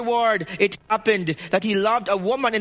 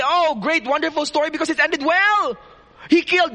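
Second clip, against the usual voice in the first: gushing praise; 5 semitones higher than usual. Retold or imitated. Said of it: "some people would say".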